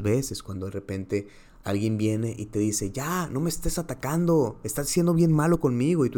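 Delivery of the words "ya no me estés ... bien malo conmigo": higher-pitched protest, imitating an accuser; lightly acted aggrieved complaint; mock complaint. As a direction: imitate someone complaining of being picked on. Acts out someone feeling attacked.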